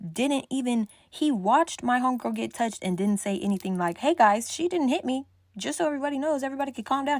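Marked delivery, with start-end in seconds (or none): 4.0-7.2 higher, imitating Mark calming things; mock Mark. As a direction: voice what Mark should have said. What Mark should have said.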